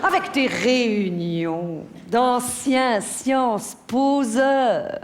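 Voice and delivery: slow, drawn-out contempt, each word leaned on; scornful rant. Acted. Wife mocking husband's alumni meetings, scornful. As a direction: stretch the words out with mounting scorn.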